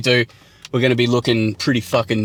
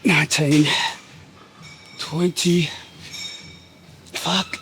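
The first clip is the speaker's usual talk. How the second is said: lifting weights; 7 semitones higher, 8 dB quieter, slower than usual. Real, not acted. Counting reps mid-set.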